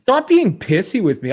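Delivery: imitating a whiny reporter, pitch up; mock reporter. Host imitating the reporter pestering Draisaitl, whiny mock voice. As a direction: needle him like a nagging reporter. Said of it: "The guy's like".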